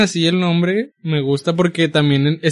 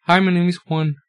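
put-on English accent. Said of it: "porque allá es John".

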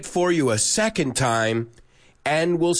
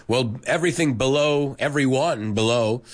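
lightly put-on Southern US accent. Shown as a demonstration. Teacher showing students how Southerners talk, Southern US accent. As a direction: speak as if from the American South. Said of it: "sounds a lot like this".

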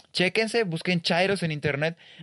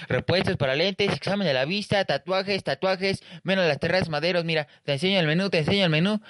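higher, sing-song hawker calling out wares; street hawker; 4 semitones higher than usual. Retold or imitated. Street hawker calling to people walking by, sing-song pitch. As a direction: sell lenses and menus to passersby. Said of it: "Los güeyes que te venden".

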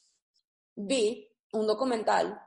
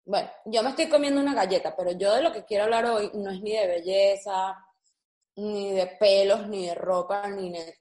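hablando con la boca llena. Real, not acted. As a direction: comiendo una galleta mientras habla. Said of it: "Estoy hablando con la boca llena". (hablando con la boca llena de galleta)

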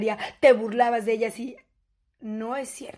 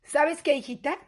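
smug mother; 3 dB quieter than usual. Acted. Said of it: "te dice con este tono la cabrona".

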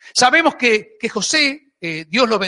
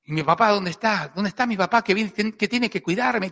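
acted soft, plaintive questioning; understated lament, half to oneself; forlorn complaint; 5 dB quieter than usual. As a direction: ask it quietly, like an abandoned son. Voices abandoned Joseph asking for his father.

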